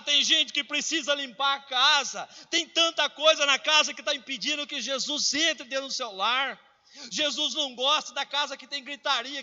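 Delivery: fervent preaching. Acted. Preaching rises to full force.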